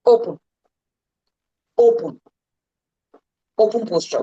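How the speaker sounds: open, projected. Shown as a demonstration. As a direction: call out open like throwing arms wide. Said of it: "You have to stand tall".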